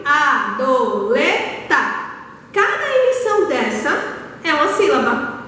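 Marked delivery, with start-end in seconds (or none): 0.0-1.8 slow, spaced-out "adoleta", each syllable apart; teacher sounding out "adoleta" slowly for the class. Shown as a demonstration. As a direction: break "adoleta" into separate beats: a, do, le, ta.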